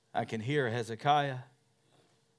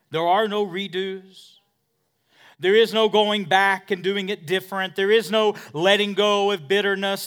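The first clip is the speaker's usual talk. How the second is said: loud, high, building pulpit cry; preaching at full force; 9 semitones higher, 14 dB louder than usual. Acted. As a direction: pound each no home to the crowd. Building sermon climax.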